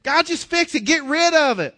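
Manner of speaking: stressed prayer. Retold or imitated. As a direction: beg God to just fix it. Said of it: "We ask God so many times".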